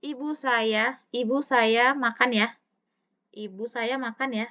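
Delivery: "Ibu," lifted with a pause, then "saya makan ya"; comma after Ibu. Shown as a demonstration. Teacher reading the sentence with a comma after "Ibu". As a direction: call out "Ibu," then the rest.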